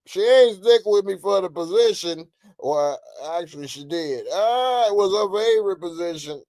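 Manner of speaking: a touch of Trump bragging; Trump impression. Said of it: "that's my Trump impression".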